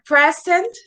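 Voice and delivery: "present" with a strong PRE, stretched slowly; slow PRE-sent, first syllable stressed. Shown as a demonstration. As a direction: say "present" as PREZ-ent, lifting at the end. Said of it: "Always has a stronger pronunciation".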